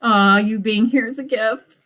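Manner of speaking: hammed-up teary gushing, imitating herself; mock crying. Streamer mocking her own emotional reply, teary mock crying. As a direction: play it as a fake sob over a sweet compliment. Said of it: "Pam getting all".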